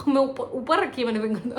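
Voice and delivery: words broken by real laughter; laughing through it. Real, not acted. Vlogger retelling the finger comeback, laughing. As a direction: giggle out the quote.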